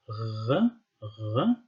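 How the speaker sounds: "r" as a throaty Arabic ghain sound. Shown as a demonstration. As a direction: say "r" far back in the throat, like ghain. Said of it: "equivalent to Arabic ghain".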